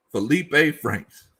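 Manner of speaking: drawn out like you can't believe it; slow disbelief. Real, not acted. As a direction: let the name hang in disbelief. Disbelief at the signing news.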